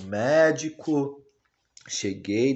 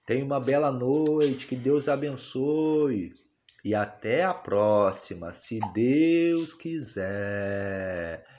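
voicing the baby; slower than usual.

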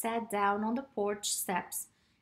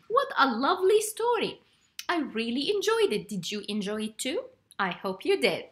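cheery; 4 dB louder, faster than usual. Real, not acted. Host cheerily addresses children.

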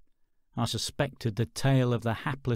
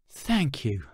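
sighed. Acted. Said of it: "I sighed".

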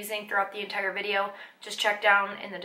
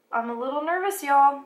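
loud Southern "y'all"; playful Southern twang, punched at the end; Southern accent; 3 semitones higher, 5 dB louder than usual. Real, not acted. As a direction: slip into a Southern accent, leaning hard on "y'all". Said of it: "where are these Southern accents coming from".

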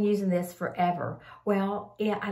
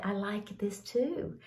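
whisper; 6 dB quieter, slower than usual. Real, not acted. Confiding a product favourite.

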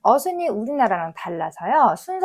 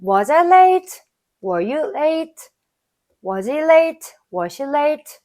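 higher and louder with late stressed; loud model reading; 4 semitones higher, 4 dB louder, much slower than usual. Shown as a demonstration. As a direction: belt it out for repetition. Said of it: "시작을 해볼까요". (크고 높게 또렷이 읽는 시범)

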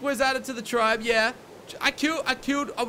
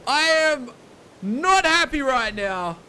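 annoyed, louder; 4 dB louder, slower than usual. Real, not acted. Upset at lost loot.

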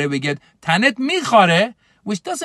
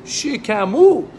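mocking tease; 3 semitones higher, slower than usual. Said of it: "You see him next time".

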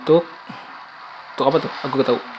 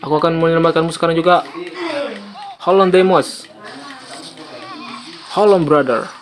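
dramatic shout; 6 semitones higher, faster than usual. Acted. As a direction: shout desperately as Kratos. Player voices Kratos saving Deimos. (teriakan dramatis)

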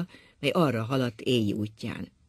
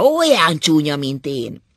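grimacing outburst; 10 dB louder, slower than usual. A narrator's reading. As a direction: exclaim it with disgust. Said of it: "orrát förtelmesen elhúzta". (undorodó felkiáltás)

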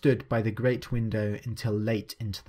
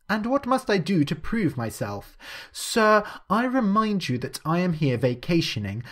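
a lightly voiced proud young gentleman, higher and offended; Quentin, indignant gentleman; 3 semitones higher than usual. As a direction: stand on your dignity as an affronted guest. Quentin answers Mister Siggs haughtily.

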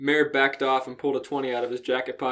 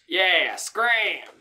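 slightly high yell; 6 semitones higher, 4 dB louder than usual. Acted. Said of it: "a much higher pitched voice screamed".

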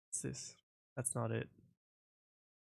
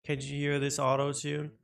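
auto-tuned voice; 3 semitones higher, much slower than usual. Pretend. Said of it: "I turned on auto-tune".

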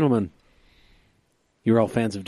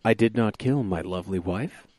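radio announcer daddy voice. Acted. Reading his Seuss-style O J poem to his podcast friends, a hint of a radio announcer. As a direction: read the rhyme like a hint of a smooth radio host. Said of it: "in my radio announcer daddy voice".

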